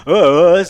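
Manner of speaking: high, loud, drawn-out "uh" noises; imitated bad singing. Describing her properly bad singing, mock wailing. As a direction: mimic a terrible singer wailing her uhs. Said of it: "her singing was so properly bad".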